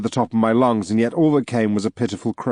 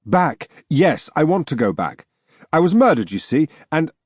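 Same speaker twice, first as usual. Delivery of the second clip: higher, urgent ghost pleading to return; eager ghost; 5 semitones higher than usual. Acted. Murdered ghost insisting to the narrator, eager and higher. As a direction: rush it out like a desperate spirit.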